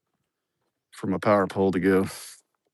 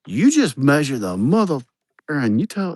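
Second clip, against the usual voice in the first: raised, put-on voice of the fed-up crew; mock exasperated crew; 6 semitones higher, 4 dB louder than usual. Crew mocking the boss, a hammed-up exasperated voice. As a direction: play the crew telling the boss to just measure. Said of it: "and they're like".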